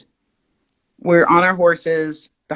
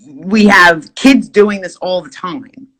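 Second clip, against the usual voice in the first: mock repeat; 6 dB louder than usual. Mockingly quotes the guide back.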